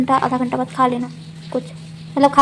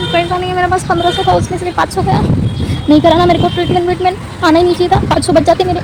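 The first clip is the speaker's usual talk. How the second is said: higher, put-on whining grumble; hammed-up stingy whine; whiny complaint; 7 semitones higher than usual. Grumbling about wasted money.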